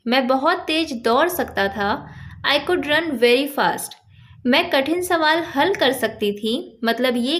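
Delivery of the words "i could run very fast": very slow, carefully spaced English words; slow teaching demo. Shown as a demonstration. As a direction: dictate it word by word to a learner. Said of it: "example देखिए".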